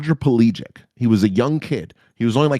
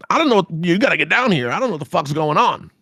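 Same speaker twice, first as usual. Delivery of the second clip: frantic; 6 semitones higher, faster than usual. Retold or imitated. Frantic call to captain.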